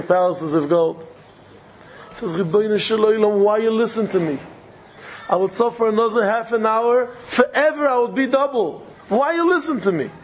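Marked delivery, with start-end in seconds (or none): 2.3-10.1 rising plea. Retold or imitated. Soul complaining to God, rising.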